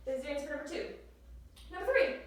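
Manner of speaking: breathless from jumping; panting a little between words; out of breath. Real, not acted. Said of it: "I'm out of breath from jumping".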